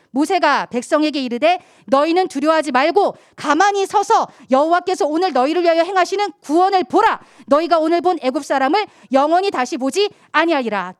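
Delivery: loud, emphatic Bible reading; scripture reading. Acted. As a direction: proclaim the verse to the congregation. Reads scripture aloud to the congregation.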